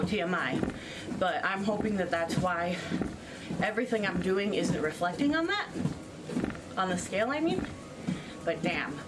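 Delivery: breathless while jogging; panting between words on a treadmill; out of breath. Real, not acted. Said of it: "a little bit out of breath right now".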